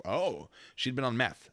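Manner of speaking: slow, knowing echo, drawing out oh. Retold or imitated. Cop echoing the husband's excuse, slow and knowing. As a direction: repeat it back like it explains everything.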